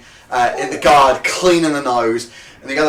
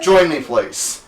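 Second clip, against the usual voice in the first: slow, forced "please"; grudging please; 3 dB louder, much slower than usual. Acted. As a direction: say please through your teeth. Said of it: "the word "please" grated on his soul".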